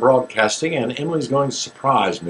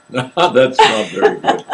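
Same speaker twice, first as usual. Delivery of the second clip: laughing; slower than usual. Real, not acted. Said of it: "laughing at own attempt".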